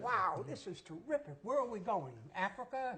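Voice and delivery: mock wide-eyed excitement, pitch lifting on the questions; lightly played excited wonder; eager reaction. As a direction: act out naive delight at a big trip. Acting out his eager reaction to script.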